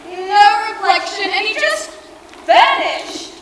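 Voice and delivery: stunned disbelief; shocked. Acted. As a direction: blurt it out in shock. Shocked at Dracula vanishing.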